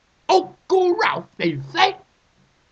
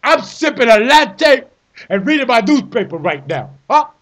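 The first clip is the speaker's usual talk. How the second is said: a hint of smug calm; mock calm. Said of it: "tells me in a calm voice".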